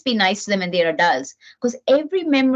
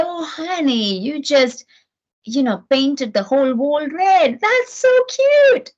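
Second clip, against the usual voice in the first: sugary, much higher and slower at the end; mock sweet indulgence; 5 semitones higher, slower than usual. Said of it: "I'm not saying".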